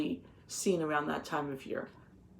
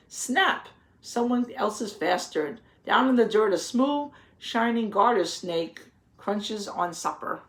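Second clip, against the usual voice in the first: lively picture-book read-aloud, a little louder; reading to children; 3 dB louder than usual. A narrator's reading. Teacher reading the garden book to the children, storybook voice. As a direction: read the page out to the class, with relish.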